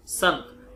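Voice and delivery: संत with the nasal ं through the nose only; nasal demo. Shown as a demonstration. Teacher demonstrating the anusvar sound in संत. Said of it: "यहां पे केवल नासिका का उच्चारण होता है".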